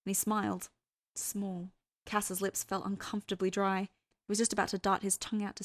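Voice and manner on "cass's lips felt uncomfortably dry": ordinary delivery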